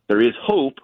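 "hope" leaned on with extra weight; stress on hope. Real, not acted. Correspondent on Zaporizhia plant protection, stressing hope. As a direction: give the word "hope" a firm push. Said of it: "and I stress the word hope".

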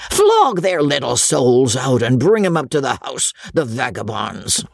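rough squire barking orders, mildly voiced; a hint of a cruel old lord calling out; roaring baronet. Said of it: "roared the baronet".

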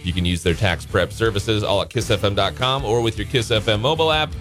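upbeat DJ giveaway pitch; radio contest promo. Acted. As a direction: sell the prize like morning radio.

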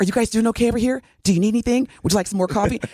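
fast, chirpy waitress voice; overeager server. Retold or imitated. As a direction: hover like a pushy server. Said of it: "every five seconds".

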